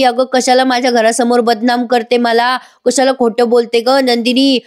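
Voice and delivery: hammed-up plaintive scolding; mock tearful wailing. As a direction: act out a wronged aunt's tearful protest. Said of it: "लगेच रडायला लागतात आणि म्हणतात".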